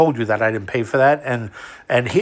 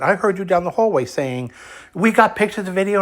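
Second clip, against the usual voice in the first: mocking quote; 6 semitones higher than usual. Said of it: "I told him, I said".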